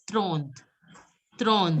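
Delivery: "throne" as French trente, one falling syllable; French pronunciation. Shown as a demonstration. Teacher introduces French thirty to the class, French pronunciation. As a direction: model "throne" with a French-style "tr". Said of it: "Thirty will be pronounced as".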